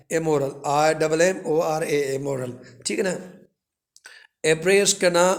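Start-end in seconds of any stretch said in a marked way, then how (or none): none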